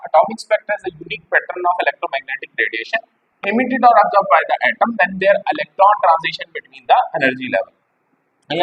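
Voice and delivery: slow, measured slide reading; reading a definition. Shown as a demonstration. Teacher reading the definition aloud slowly to students. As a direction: dictate the definition word by word.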